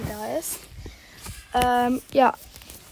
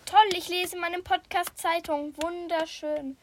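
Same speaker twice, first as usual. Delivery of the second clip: mock enthusiasm; 5 semitones higher than usual. Real, not acted. Mocks herself reading news on podcast.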